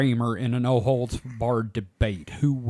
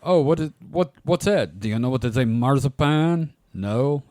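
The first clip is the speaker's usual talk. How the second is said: exasperated Frenchman. Retold or imitated. Frenchman at Disney World explaining marzipan, mildly exasperated. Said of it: "Exasperated Frenchman".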